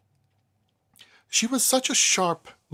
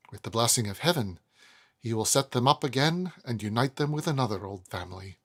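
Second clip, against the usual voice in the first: put-on emotional old lady. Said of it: "always with some emotion".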